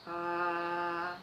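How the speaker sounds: steady mid-range "ah"; middle tone. Shown as a demonstration. Teacher demonstrates a medium sound for children, held middle note. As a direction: sustain an "ah" in the middle register. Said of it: "fazer um som médio".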